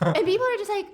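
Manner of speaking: high, laughing through the words; can't stop laughing while telling it. Real, not acted.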